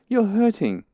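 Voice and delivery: high, loud complaint; pained cry. A narrator's reading. Pooh to Rabbit pulling him, pained cry. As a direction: complain loudly, voice pitched right up. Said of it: "cried Pooh".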